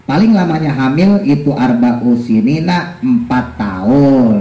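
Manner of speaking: measured kitab reading with drawn-out endings; deliberate text-reading cadence; reading a religious text aloud. Real, not acted. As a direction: read each phrase out and translate it. Reads and translates the text.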